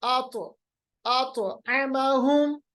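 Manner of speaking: आत आमाहुम slow, the t bouncing; qalqalah. Shown as a demonstration. Teacher repeats the correct reading, आत with bounced t. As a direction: release आत as "ato", draw out आमाहुम. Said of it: "आत नहीं पढ़ेंगे".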